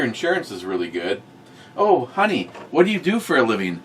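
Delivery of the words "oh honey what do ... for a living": lightly higher, chirpy wife asking her husband, quick at the end; a hint of a doting wife, pitched up; mock wife voice. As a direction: play the sweet wife asking about his job.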